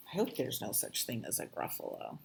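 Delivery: quick breathy half-whisper; hushed. Acted. Before reading the Gruffalo, in a mock-spooked hush. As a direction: say it like you're a bit scared.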